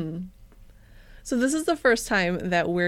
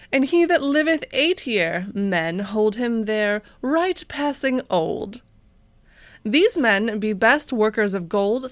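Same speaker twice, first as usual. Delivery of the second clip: mock old-timey reading. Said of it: "that's old-timey talk".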